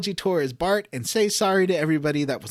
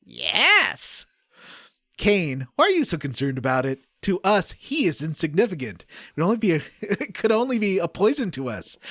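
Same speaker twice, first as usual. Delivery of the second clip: hammed-up game dialogue. Reading game script aloud to co-hosts, hammed-up dramatic voices. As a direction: overact the villains' lines while trying not to laugh.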